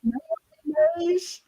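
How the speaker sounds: slow stretched Southern Max Mayonnaise; drawled Mayonnaise, jaw pushed out. Shown as a demonstration. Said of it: "I got it".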